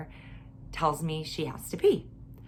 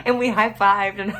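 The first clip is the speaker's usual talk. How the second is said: laughing; 6 dB louder than usual. Real, not acted. Laughing through the telling.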